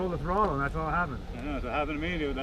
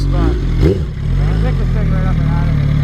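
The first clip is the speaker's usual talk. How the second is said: calling out; 10 dB louder than usual. Real, not acted. Shouting directions from far off.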